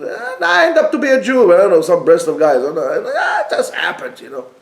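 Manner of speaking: lightly voiced shrugging drifter, fast; a hint of a careless slacker, laughing at the end. Rabbi mocks someone Jewish by chance, mildly voiced shrugging slacker. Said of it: "does not want us to follow him".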